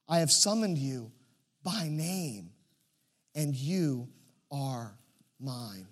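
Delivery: solemn Bible reading; scripture reading. Acted. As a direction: read it as God speaking tenderly.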